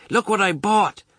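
high-pitched, eager showing-off; excited Ma. A narrator's reading. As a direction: proudly show off a new purchase. Ma excitedly shows her purchase.

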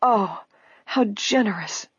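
touched, unhurried appreciation; murmuring. A narrator's reading. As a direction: murmur it gratefully. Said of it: "Edna murmured".

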